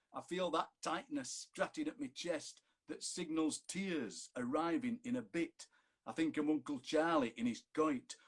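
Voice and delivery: sonnet recited in broad Barnsley Yorkshire, rough and unhurried; Barnsley accent. Acted. Poet reciting his lockdown sonnet in a broad Barnsley accent. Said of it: "written in the rough music of Barnsley".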